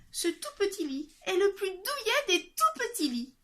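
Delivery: put-on high girlish voice, content; lightly voiced drowsy girl; sleepy contented girl. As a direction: drift toward sleep, pleased. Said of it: "eut-elle juste le temps de dire avant de s'endormir".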